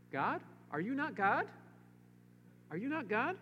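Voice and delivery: high, pleading questions to God; pleading king. Acted. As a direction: beg God as the king would. Voicing Jehoshaphat's prayer, pleading.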